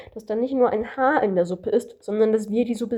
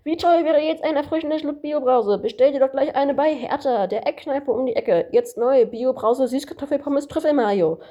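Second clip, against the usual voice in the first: a lightly put-on radio ad announcer, a bit higher; disguised ad voice; 5 semitones higher than usual. Kangaroo pranking the narrator on the phone with a fake ad, mildly disguised voice. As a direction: hawk the lemonade like a cheesy commercial. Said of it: "sagt das Känguru mit verstellter Stimme".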